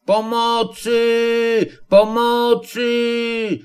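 wysokie, przeciągnięte, bardzo powolne wołanie o pomoc; rozciągnij każde pomocy wysoko i wolno; wołanie z drzewa. Acted. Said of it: "jagular zawołał do nich z góry". (wysoko i bardzo wolno, przeciągle: Pomocy! Pomocy!)

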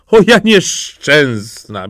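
high, drawn-out wail; self-pitying princess lament. A narrator's reading. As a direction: bemoan your fate slowly. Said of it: "biadała księżniczka".

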